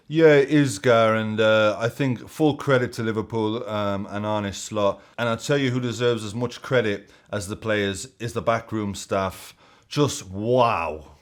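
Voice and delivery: booming Geordie praise for the staff; Alan Shearer voice. Retold or imitated. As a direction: Shearer answering Lineker, loud mock Geordie. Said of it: "Gary Lineker to Alan Shearer".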